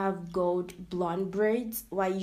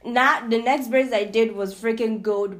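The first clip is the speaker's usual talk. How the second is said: defiant; 2 semitones higher, 10 dB louder than usual. Real, not acted. Defiant retelling, voice rising.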